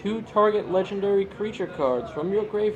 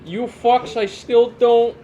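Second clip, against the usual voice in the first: mock rant, louder and higher; sputtering foiled villain; 4 semitones higher, 5 dB louder than usual. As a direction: shake your fist and sputter. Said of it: "The old man's yelling at clouds again".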